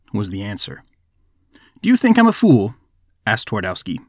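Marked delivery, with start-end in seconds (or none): 1.8-2.7 high-pitched, incredulous retort; acted indignation, voice jumping high; indignant question. A narrator's reading. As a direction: pitch it up as if insulted. Magician indignantly questions the devil.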